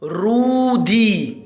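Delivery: رودي said slowly with long vowels; slow model word. Shown as a demonstration. Teacher naming the pictured person for pupils, رودي slowly drawn out. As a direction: draw out both vowels of رودي. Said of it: "ما اسمه؟".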